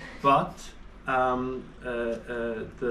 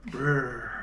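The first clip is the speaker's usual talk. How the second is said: teeth-chattering brr; shivering brr; 6 semitones lower, 6 dB quieter than usual. Shown as a demonstration. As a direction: make a cold shiver sound. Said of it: "I go".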